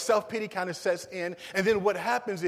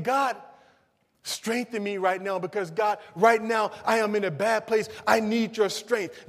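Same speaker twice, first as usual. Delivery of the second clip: raised, pleading prayer; crying out to God; 3 semitones higher, 3 dB louder than usual. Acted. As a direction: plead for strength, pitch lifted. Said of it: "he's crying out for God".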